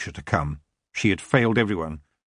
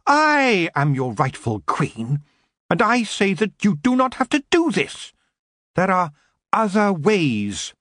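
rally the elves to her side; regal plea; 10 semitones higher than usual. A narrator's reading. Queen urging the elves to turn away, pleading.

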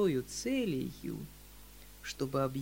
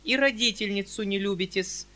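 high, louder prim spinster with wounded dignity; high, louder haughty spinster voice; dignified spinster; 6 semitones higher, 7 dB louder than usual. Acted. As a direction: stand on your dignity as the old maid. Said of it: "с достоинством отвечала".

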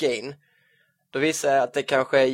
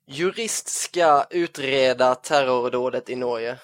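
mock headline reading; slower than usual. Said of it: "lyder rubriken så här".

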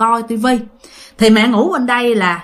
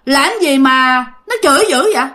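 raised pitch, indignant ghost's complaint; retold threat; 4 semitones higher than usual. Ghost warns mother about her cursing husband, indignantly threatening. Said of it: "bà nói vậy á".

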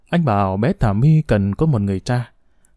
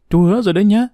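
hồ hởi; 7 semitones higher, faster than usual. A narrator's reading. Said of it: "Bé My hồ hởi".

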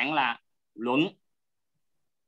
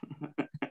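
soft chuckle; 12 dB quieter than usual. Real, not acted. Brief chuckle after checking understanding.

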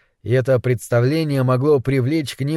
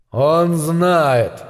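angel voice; 2 semitones higher than usual. A narrator's reading. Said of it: "звучал голос Уриэля".

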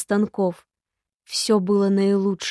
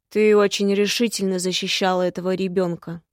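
flat hoarse voice; 4 dB louder than usual. Acted. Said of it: "был невыразительно хриплым".

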